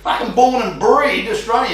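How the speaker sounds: high, loud laughing line. Real, not acted. Host laughing at his own misspelt tattoo. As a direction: laugh through the punchline.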